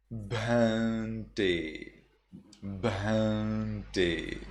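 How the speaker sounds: Burmese bhante; Burmese pronunciation. Shown as a demonstration. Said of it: "in Burma, you say".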